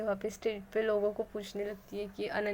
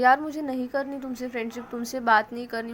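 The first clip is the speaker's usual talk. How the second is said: louder, fed-up refusal; annoyed friend breaking off the friendship; angry; 3 semitones higher, 6 dB louder than usual. Acted. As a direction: push her away in anger.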